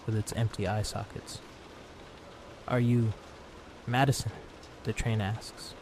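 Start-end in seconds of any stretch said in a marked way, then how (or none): 2.7-4.3 put-on childlike monster voice. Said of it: "Its voice is high-pitched and feminine".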